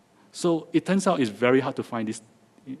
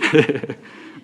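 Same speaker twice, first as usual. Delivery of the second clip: short amused chuckle; 2 semitones higher, 6 dB louder than usual. Real, not acted. Speaker after kidding about his accent, short chuckle. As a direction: let a brief laugh slip out.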